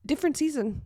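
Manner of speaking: tearful, voice catching; fighting back tears; choked up. Real, not acted. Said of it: "sorry, I didn't mean to get choked up".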